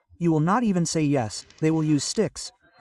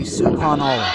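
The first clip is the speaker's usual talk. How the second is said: loud group reply; crowd shout; 3 semitones lower, 3 dB louder than usual. Real, not acted. Crowd answers the cleric with a loud shout. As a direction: everyone shouts it back at once. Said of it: "all of you together say".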